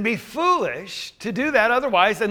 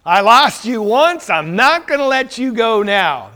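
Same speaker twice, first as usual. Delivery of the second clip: clinging plea; 2 semitones higher, 6 dB louder than usual. Retold or imitated. Mary clinging to risen Jesus.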